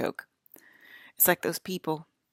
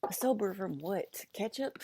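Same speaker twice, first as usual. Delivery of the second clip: mock disbelief; 4 semitones higher, 4 dB quieter, slower than usual. Real, not acted. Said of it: "comic disbelief".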